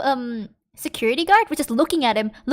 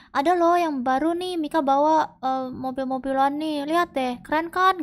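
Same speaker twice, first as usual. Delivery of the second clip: trying to sound cool. Retold or imitated. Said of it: "coba-coba keren gitu loh".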